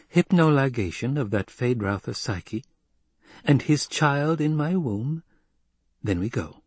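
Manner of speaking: lightly voiced noblewoman, lifting in pitch; scheming lady. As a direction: list the plan, drawing out the end.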